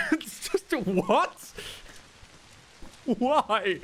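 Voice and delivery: high-pitched disbelief; incredulous. Real, not acted. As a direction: squeak out the outrage. Baffled by Macarena boss.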